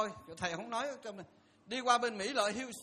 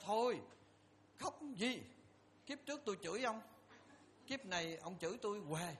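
gentle consoling; 9 dB quieter than usual. Retold or imitated. Monk consoling crying man, quoted.

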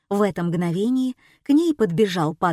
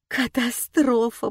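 moaning; 4 semitones higher, slower than usual. A narrator's reading. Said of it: "простонала Фатима".

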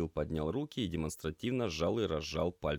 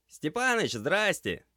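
громкое приветствие, высоко и звонко; крикни с порога на весь магазин; громко; 13 semitones higher, 8 dB louder, slower than usual. A narrator's reading. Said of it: "громко произнёс кот". (кот громко здоровается со Степанычем с порога)

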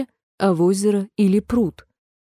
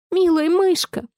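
much higher call after the mouse; pleading call; 9 semitones higher than usual. A narrator's reading. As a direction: call out to make her come back. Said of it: "воскликнула Алиса". (громкий умоляющий зов Алисы)

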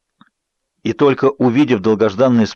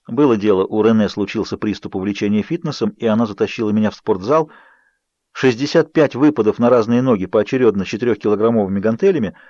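ordinary delivery, nothing marked

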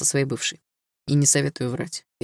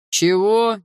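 high, louder startled Чего; surprised; 6 semitones higher, 5 dB louder than usual. A narrator's reading. Mel startled by Dilara's accusation. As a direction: caught completely off guard.

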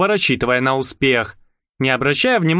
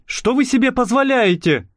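babbled; 9 semitones higher than usual. Acted. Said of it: "Пролепетал опешивший Николя".

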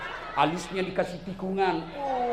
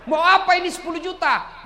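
tag; 11 semitones higher, 7 dB louder than usual. Acted. Wife confronts husband over hidden money.

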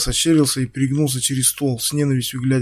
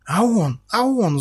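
much higher stammering start; sputtering excitedly; 8 semitones higher, slower than usual. Acted. Ксюша захлёбывается словами, обвиняя Стаса. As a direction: choke on the words. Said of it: "захлёбываясь от переизбытка слов".

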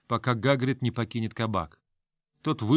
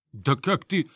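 flaring up; 3 semitones higher, slower than usual. Acted. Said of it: "вновь вспыхнул Гагрид".

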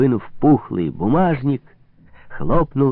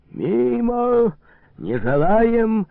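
high, slow mock shout of refusal; old man's shout; 12 semitones higher, much slower than usual. Old man refusing the cutlets, mild mock shout. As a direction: wave the dish away, high and drawn out. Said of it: "закричал белобородый румяный старик".

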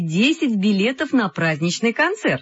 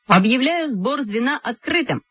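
raised, official chairman's voice; opening announcement; 6 semitones higher than usual. A narrator's reading. Kolya opens the group meeting, announcing officially. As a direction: declare the meeting open, pitched up.

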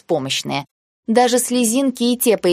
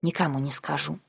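much softer, lower secret vow; quiet, lower promise of silence; hushed promise; 4 semitones lower, 10 dB quieter than usual. Acted. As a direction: drop to a hush, sealing the secret.

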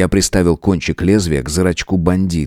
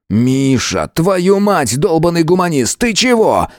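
enraged; 9 semitones higher, slower than usual. A narrator's reading. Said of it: "Я взъярился".

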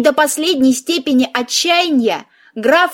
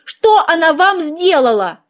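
higher, aggrieved mouse voice; sorrowful exclamation; 4 semitones higher than usual. A narrator's reading. Mouse questions the heroine about grandmother, sorrowful exclamation. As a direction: plead the grandmother's case, pitched up. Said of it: "горестно воскликнула мышь".

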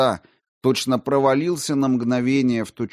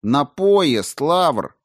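louder, higher firm call; raised voice; 6 semitones higher, 6 dB louder, much slower than usual. A narrator's reading. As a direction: raise the voice to insist. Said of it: "позволил себе повысить голос".

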